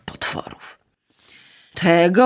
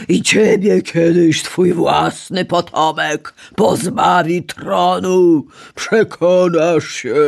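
screaming while falling; slower than usual. A narrator's reading. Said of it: "wrzeszczał spadający w ciemność Uranos".

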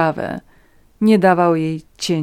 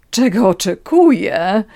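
slow, louder, rising incredulous question; indignant echo; 4 semitones higher, 7 dB louder, slower than usual. A narrator's reading. Countess throws Natalia's question back, indignant. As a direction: draw out the question in haughty disbelief.

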